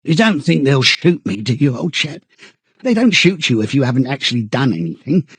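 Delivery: high, pleading, stammering chap; eagerly appealing. A narrator's reading. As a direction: beg anxiously for reassurance. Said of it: "began eagerly appealing to him".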